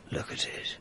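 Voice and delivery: a near-silent murmur at the canvas; awed whisper. Acted. Art dealer murmurs to the inspector, hushed with awe.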